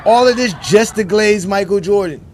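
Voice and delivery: laughing. Real, not acted. Laughing at his own punchline.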